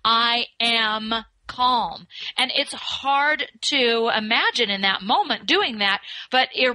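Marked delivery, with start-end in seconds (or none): 0.0-2.1 slow, deliberate I am calm; slow steady self-talk; calm affirmation. Shown as a demonstration. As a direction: plant it slowly, word by word. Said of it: "You intentionally say to yourself".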